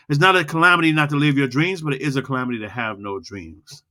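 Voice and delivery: quick, steady, engaging speech read; a steady, engaging recited speech; low and fast. Shown as a demonstration. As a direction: roll it out, drawing them in. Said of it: "when you say low and fast".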